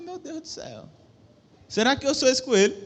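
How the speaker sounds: high-voiced retelling of an alarmed thought; worried self-questioning. Preacher quotes his own thought on seeing himself in the rabbit, mock worried.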